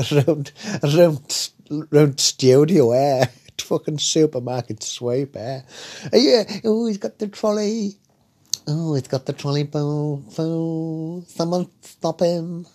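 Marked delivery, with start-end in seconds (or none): 6.1-12.6 high, excited game show host voice, slowing at the end; Dale Winton chasing. Retold or imitated. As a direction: squeal like a host watching a thief run. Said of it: "imagine how Dale there chasing them around".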